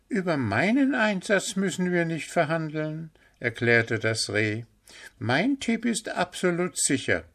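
high, bright-eyed deer voice; eager young deer. A narrator's reading. Deer Pünktchen defends Willi to Puh, high eager voice. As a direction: insist with admiring enthusiasm.

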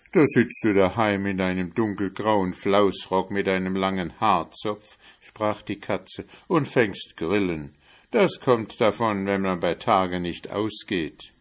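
a touch of a sneering cat; scornful cat. Acted. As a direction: scold the stay-at-home mouse. Cat scolds the mouse.

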